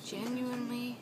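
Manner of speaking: very soft, drawn-apart repetition; hushed insistence. Real, not acted. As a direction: repeat it softly, letting each one hang. Repeats one word over and over.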